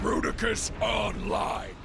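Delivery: proud shout as the giant powers on; booming announcement. Acted. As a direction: declare yourself awake. Combined giant announces itself.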